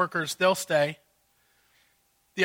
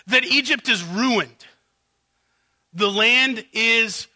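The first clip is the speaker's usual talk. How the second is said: outraged servants. Acted. Servants pleading with Pharaoh over ruined Egypt, indignant. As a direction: pile up the complaints in exasperation. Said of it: "here's their outrage".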